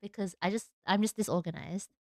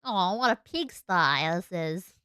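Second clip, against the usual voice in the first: slow, put-on Australian accent; drawn-out mock Australian; 2 semitones lower, slower than usual. Shown as a demonstration. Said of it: "What would the Australian accent sound like?".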